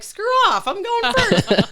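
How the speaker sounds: high, loud mock yell; rude outburst. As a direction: yell it pushily, hamming up the rudeness. Acts out her old rude self.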